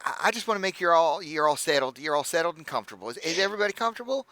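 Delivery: high, gushing hostess voice; bubbly halfling innkeeper. Acted. Innkeeper welcoming the party, high and gushing.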